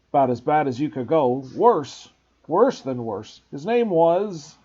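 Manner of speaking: big man scared to say it; Hagrid voice. Acted. Hagrid frightened.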